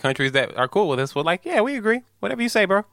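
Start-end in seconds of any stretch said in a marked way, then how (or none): 1.4-2.8 high-pitched mock agreement; put-on high voice, going along meekly; compliant yes-man. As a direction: go way up high as an eager little follower. Mimics compliant countries agreeing.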